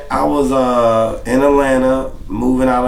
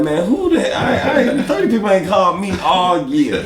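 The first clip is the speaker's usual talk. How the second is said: laughing disbelief; 4 semitones higher than usual. Retold or imitated. Retelling his reaction to thirty missed calls.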